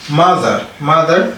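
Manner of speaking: MOTHER stressed on the first syllable; accent on MA. Shown as a demonstration. Teacher showing the accent, stressed MA in MOTHER. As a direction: lift the MA of MOTHER. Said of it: "Accent bi da nga koy yëkkati aussi si ma bi".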